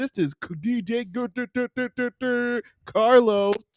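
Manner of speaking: high-pitched, hyped radio DJ voice. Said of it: "my radio D J voice going".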